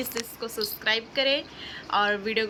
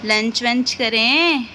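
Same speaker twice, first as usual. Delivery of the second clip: louder, slow sing-song call to eat; 3 dB louder, slower than usual. Real, not acted. Mother calling her baby girl for lunch, louder slow sing-song.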